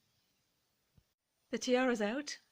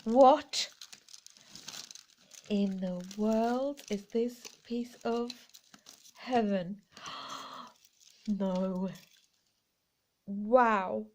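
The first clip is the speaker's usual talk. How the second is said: amazed; 5 dB louder, much slower than usual. Real, not acted. Amazed at a find.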